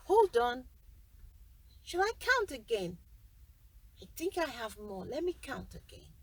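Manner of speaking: loud, eager greedy giant; the giant demanding a recount, loud at first. Acted.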